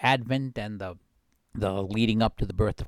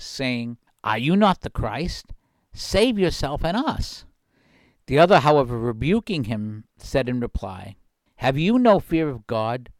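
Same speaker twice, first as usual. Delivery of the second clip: louder, measured Gospel reading voice; scripture reading; 3 dB louder than usual. Acted. Radio host reading the Gospel to his listeners, solemn reading. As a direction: proclaim the passage like a lector at Mass. Reads the Gospel passage aloud.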